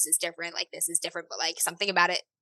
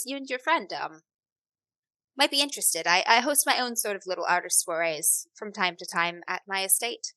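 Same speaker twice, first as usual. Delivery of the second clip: understated, measured hostess; lightly voiced refined patron; 7 dB quieter than usual. Hostess inviting two artists to her soirees, lightly voiced courtesy. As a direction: invite them with quiet courtesy.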